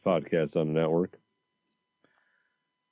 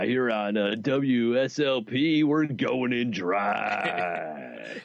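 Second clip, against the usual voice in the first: shock jock radio host; much slower than usual. Acted. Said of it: "It does sound like a shock jock thing".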